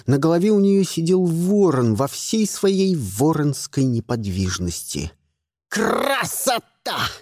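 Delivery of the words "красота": slow, drawn-out croak of a smug raven; raven's pronouncement. A narrator's reading. Raven admiring the shot, in a slow croaking drawl. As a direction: let the raven savour each syllable. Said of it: "изрёк он".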